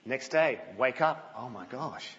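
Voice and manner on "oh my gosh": much softer, worn-out sigh of a phrase; weary groan. Acted. Worker waking up to the same routine again, tired soft groan. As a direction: mutter it like you can't face another day.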